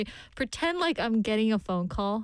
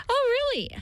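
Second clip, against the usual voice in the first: mock surprise; 3 dB louder, much faster than usual. Mock reply from listener skit.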